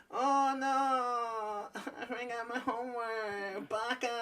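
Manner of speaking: high, crying anime wail; mock sobbing anime fan; anime-style panic. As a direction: whimper like a panicked anime character. Imitating anime-fan classmate panicking.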